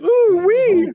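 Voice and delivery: put-on high, squealed French-accented coo; mock French accent. Doing the wife's cute French accent for the co-host. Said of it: "She's got that little French accent".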